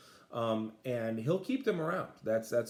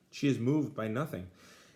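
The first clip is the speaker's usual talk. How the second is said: plain reading voice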